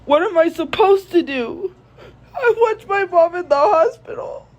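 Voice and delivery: real tears cracking the voice; crying. Real, not acted. Grieving over brother, mother hospitalised.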